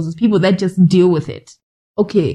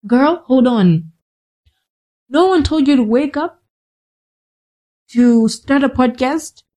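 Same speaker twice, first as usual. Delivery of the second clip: scolding herself; 3 semitones higher than usual. Retold or imitated. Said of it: "And then I'm like".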